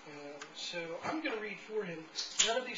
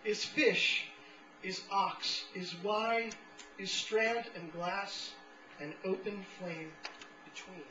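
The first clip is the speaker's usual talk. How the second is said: measured recital with deliberate pauses between phrases; poetry reading; slower than usual. Acted. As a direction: set each fragment apart like an incantation. Resumes reading the poem.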